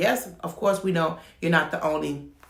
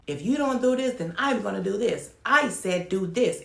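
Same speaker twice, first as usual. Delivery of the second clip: bossy license rep; 4 semitones higher than usual. Retold or imitated. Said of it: "literally talking like that".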